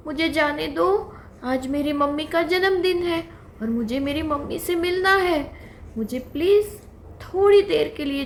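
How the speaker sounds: high, whimpering plea, lightly acted; mock crying fawn. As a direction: fawn begging the lion to let it see its mother. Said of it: "फिर से बच्चा रोने लगा". (हल्का रोते हुए विनती)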